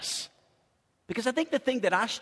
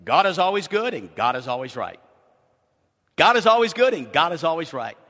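quoting John Bishop; 3 semitones lower, 4 dB louder than usual. Retold or imitated. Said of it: "remember him coming here and saying this".

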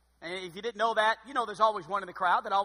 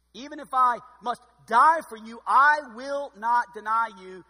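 loud, slow, emphatic vow; Peter's vow; 3 semitones higher, 10 dB louder, slower than usual. Acted. Preacher voicing Peter vowing loyalty to Jesus, loud and slow. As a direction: swear it loudly and slowly.

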